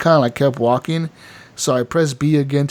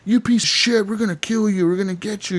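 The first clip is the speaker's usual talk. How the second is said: mock threatening mob; 7 semitones higher than usual. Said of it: "They're like".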